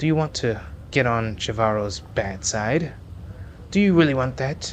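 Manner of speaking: furious, contemptuous, threatening demon voice. A demoness in a game story warns a demon near the slaves, angry. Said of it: "The SMR slaves standing nearby try to avoid looking at the angry demoness. / Or keep going and you can steer clear of my palace of delights. / A grotesquely fat demon speaks to a demoness standing in".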